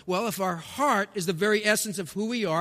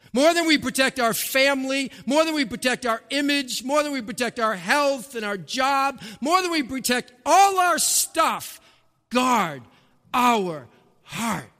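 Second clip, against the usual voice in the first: rising, louder with each "more than", ending in a shout; building to a shout; 3 semitones higher, 4 dB louder than usual. Acted. Preacher driving the point home to the congregation, building to a shout. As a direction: build the list until it bursts out. Sermon list building to climax.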